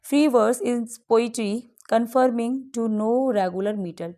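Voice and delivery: slow, deliberate reading of the poem lines; slow quiz reading. Acted. Teacher reads a quiz question to students, slow and deliberate. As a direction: read the question out slowly for dictation.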